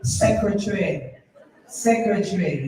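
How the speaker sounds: "Secretary" shortened to "secre-tree", English style; English-accented "Secretary", low and closed-mouthed. Shown as a demonstration. Tutor shows the proper London way, English accent. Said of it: "You must say".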